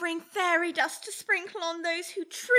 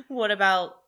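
lightly put-on Italian accent, lower; 13 semitones lower, slower than usual. Sketch fairy announcing Luigi in mild Italian accent. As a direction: introduce him in a hint of Italian.

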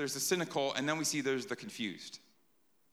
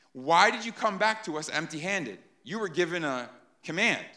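upset Pharisees. Retold or imitated. Pharisees scolding the officers, mildly mock upset. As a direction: scold the officers for coming back empty-handed. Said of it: "They're upset".

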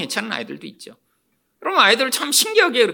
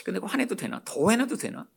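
hushed, hesitant self-questioning; soft, furtive thinking aloud; wary, testing; 9 dB quieter than usual. Acted. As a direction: act out checking nervously whether anger is allowed. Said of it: "화내면서도 눈치를 보죠".

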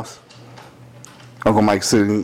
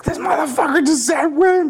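inner disbelief. Retold or imitated. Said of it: "in my head, I was like".

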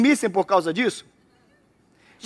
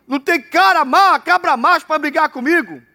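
mocking challenge; 5 semitones higher, 3 dB louder than usual. Goliath taunting Israel's army.

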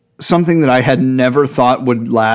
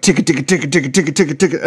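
ticking tongue clicks; much faster than usual. Retold or imitated. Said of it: "and it's like".

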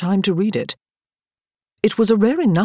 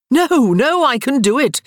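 much higher, loud tipsy insisting; drunken insistence; 9 semitones higher, 6 dB louder than usual. A narrator's reading. Daniel drunkenly insisting he can win at cards. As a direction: wave off the doubters, slurring with glee.

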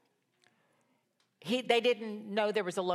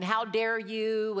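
mock judgmental; 3 semitones higher, 3 dB louder, much slower than usual. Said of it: "we could get all judgmental and find fault".

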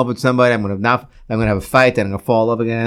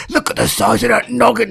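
high-pitched mock-amazed voice; mock teasing; 8 semitones higher than usual. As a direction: gawk at a giant head in a silly high voice. Mock-teasing about an enormous head.

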